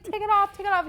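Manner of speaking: high, loud, urgent repeat; frantic demand. Retold or imitated. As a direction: reenact a panicked demand. Retelling demand to remove strip.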